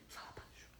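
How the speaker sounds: tiny, barely audible whisper; very quiet whisper. Shown as a demonstration. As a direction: whisper it as softly as possible. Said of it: "Bem baixinho, assim".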